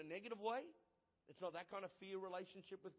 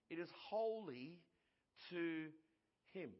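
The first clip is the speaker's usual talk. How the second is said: slow and spaced out; slower than usual. Shown as a demonstration. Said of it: "Listen to this".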